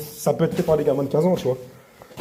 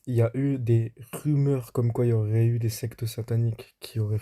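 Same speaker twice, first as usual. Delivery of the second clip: voice-over narration. Acted. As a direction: tell it like a documentary voice-over. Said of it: "on se retrouve pour la voix off".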